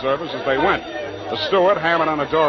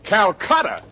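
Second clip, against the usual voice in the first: incredulous Calcutta?; startled repeat of the port name; shocked; 6 semitones higher, 3 dB louder, slower than usual. Acted. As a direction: echo it back in disbelief. Shocked at destination price.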